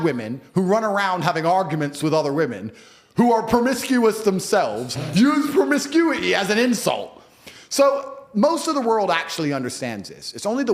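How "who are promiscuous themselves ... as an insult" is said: louder, higher and slow, each word leaned on; emphatic slow stress. Real, not acted. Stressing the point to the host, slow and loud. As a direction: drive the point home slowly.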